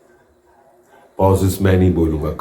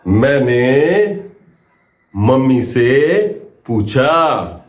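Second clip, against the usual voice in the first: slow demo line; 5 semitones higher, much slower than usual. Shown as a demonstration. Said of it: "first line मेरी हिंदी में आएगी बस".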